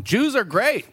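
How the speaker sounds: put-on high, heavy Japanese accent. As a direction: quote him in a thick Japanese accent. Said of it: "sound drop of him going".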